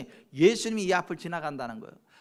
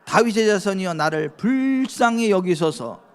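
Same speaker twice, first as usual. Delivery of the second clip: slow, pleading cry of 불쌍히; louder cry for mercy; 5 dB louder, slower than usual. Retold or imitated. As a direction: draw out the plea like a blind beggar. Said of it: "그가 더욱 크게 소리 질러 이르되".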